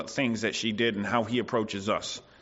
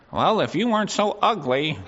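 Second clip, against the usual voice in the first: put-on childish insult with a laugh; 5 semitones higher, 3 dB louder than usual. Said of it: "That's childish".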